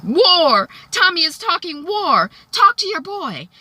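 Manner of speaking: high-pitched, agitated outburst; acted-out fired-up reaction; worked-up exclamation. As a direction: exclaim it in mock alarm, pitch soaring. Acting Dre's alarmed reaction to war.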